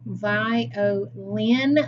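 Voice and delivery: "Violin" sounded out in three beats, vi, o, lin; "Violin" syllable by syllable for a pupil; split into syllables. Shown as a demonstration. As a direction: break "Violin" apart to show its last syllable. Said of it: "sound do you hear in the last syllable".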